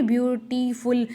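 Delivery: ब्यूटीफुल pulled apart, "byu-tee, ful"; ब्यूटीफुल with gaps between its parts; parts said separately. Shown as a demonstration. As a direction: pronounce each piece of ब्यूटीफुल on its own. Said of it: "अलग अलग बोल रहे हैं".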